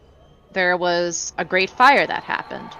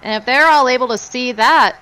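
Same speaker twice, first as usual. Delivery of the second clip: lightly voiced smooth talker; coaxing bartender pitch; 4 semitones higher, 3 dB louder than usual. A hint of a character sweet-talking the bar owner. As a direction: coax the old man gently.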